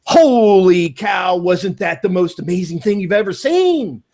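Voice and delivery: a touch of mock excitement, holy cow drawn out; excited call. Calling the friend Jason back, mildly hammed-up excitement. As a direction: gush to the friend on the phone. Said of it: "I'm gonna call you up and go".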